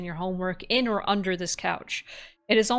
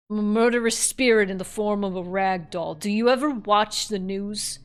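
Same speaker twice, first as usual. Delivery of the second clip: lightly done boastful New Yorker; New Yorker accent; 4 dB louder than usual. Acted. Murderous doll introduces herself to kid, light New Yorker accent. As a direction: brag with a touch of New York accent. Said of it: "my fucking New Yorker accent".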